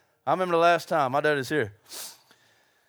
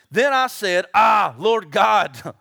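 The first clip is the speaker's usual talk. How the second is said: dramatic Jeremiah lament; 6 dB louder, much slower than usual. Retold or imitated. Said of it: "Jeremiah said what you said".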